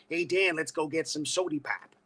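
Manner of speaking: lightly imitated Detroit accent; casual imitation of a Detroit speaker. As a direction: give it a Detroit twang on "pop". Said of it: "John is from Detroit, Michigan".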